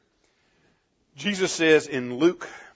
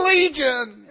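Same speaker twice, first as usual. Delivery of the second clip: demon voice; 12 semitones higher, 7 dB louder than usual. Acted. Demon answers its name.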